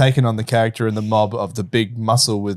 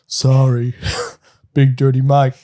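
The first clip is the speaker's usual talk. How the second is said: slow dim-witted mob muscle; dumb oaf voice; slower than usual. Acted. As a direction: mumble like a dumb big lug. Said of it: "his Big Mike voice".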